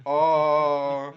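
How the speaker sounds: sudden loud startled "Oh.". Retold or imitated. Teen retelling the cop pulling a gun, loud startled gasp. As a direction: blurt it out like a gun was just pulled on you. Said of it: "And I was like".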